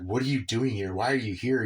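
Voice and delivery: imitating an irritated mom; mock annoyance at an unwelcome visit. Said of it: "on edge and irritated with him".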